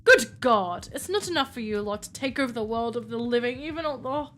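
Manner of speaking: put-on indignant complaint in an amateur British accent; butchered British accent. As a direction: play the affronted Brit, accent badly faked. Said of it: "I can't do a British accent".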